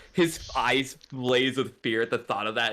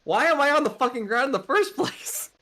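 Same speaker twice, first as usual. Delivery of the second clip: angry demand; 12 semitones higher, 3 dB louder than usual. Acted. Xerxes demands angrily.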